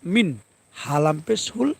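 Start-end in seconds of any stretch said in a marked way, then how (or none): 0.0-0.4 মিন with a clean n, no held hum; crisp n ending মিন; clear izhar. Shown as a demonstration. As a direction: say the n of মিন clearly without ghunnah. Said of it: "গুন্না ব্যতীত স্পষ্ট করে".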